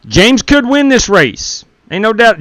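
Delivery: high, slow and drawn-out; hyped-up call. Real, not acted. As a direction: sell it like a race announcer. Hyping a racer's chances.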